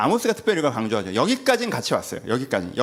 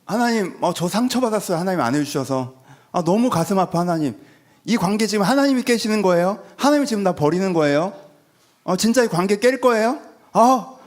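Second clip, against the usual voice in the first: higher, louder hurt pleading; guilt-trip God with wounded whining; passive-aggressive whining; 4 semitones higher, 4 dB louder than usual. Retold or imitated. Believer guilt-tripping God, hurt and whiny. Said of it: "수동 공격도 합니다".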